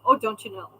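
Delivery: lightly imitated Minnesota accent; a hint of Minnesotan in the vowels; quoting an aunt's Minnesota lilt. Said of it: "she would always say".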